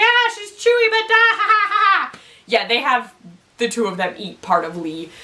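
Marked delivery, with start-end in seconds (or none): 0.0-2.2 high-pitched mock gloating laugh; cackling cannibal.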